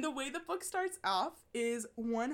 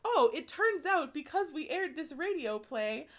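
higher-pitched mock-British radio narrator; put-on British documentary voice, lilting; British accent; 4 semitones higher than usual. Narrator announcing a new find of letters, British accent. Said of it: "in, like, a very British accent".

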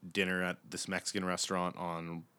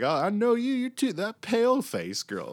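very high, loud mock stoner cry; hammed-up acid-trip recognition, voice way up; tripping out; 4 dB louder than usual. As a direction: imitate a tripping man squealing his discovery. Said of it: "and he's tripping out".

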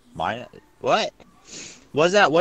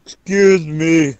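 mock posh complaint; 5 semitones higher, 7 dB louder, slower than usual.

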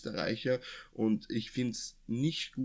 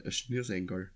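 "Schnürsenkel" forced into Austrian dialect; Austrian dialect attempt; 2 semitones lower, 3 dB quieter than usual. Shown as a demonstration. Trying to show co-host how it would sound, mock Austrian dialect. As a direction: try the word in broad Austrian dialect. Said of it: "im Dialekt doch gar nicht so aussprechen".

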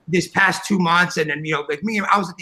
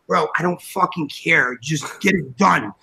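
low, drawn-out brush-off; retold weary refusal, slow and low; slow it down, done arguing; fed-up dismissal; 5 semitones lower, slower than usual. Retold spat with business partner.

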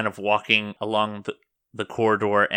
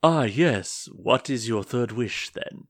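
put-on genie voice, swooping up on the opening; monster genie; slower than usual. Red-skinned genie asking his master's third wish, in character. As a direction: play an expectant genie, drawing out the greeting. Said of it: "He says".

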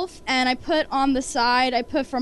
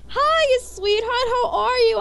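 high, lively retold hello; effusive greeting; 9 semitones higher, 5 dB louder, slower than usual. Celebrity greeting a fan at autographs, effusive. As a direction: greet a fan like a sweetheart, pitched up.

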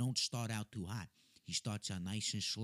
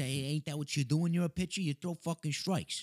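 higher, louder coaching yell; mock yell; 6 semitones higher, 5 dB louder than usual. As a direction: yell it like from the bleachers. Dad acting out his yelling.

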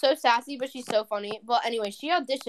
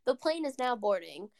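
slow announcer voice, a bit softer; airport announcement; 6 dB quieter than usual. Retold or imitated. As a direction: read it out like a gate announcement, slowly. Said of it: "She went".

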